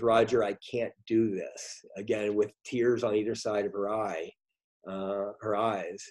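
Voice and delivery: holding back tears while quoting her; choked up. Real, not acted. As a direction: voice catching, getting emotional. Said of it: "I'm getting choked up talking about it".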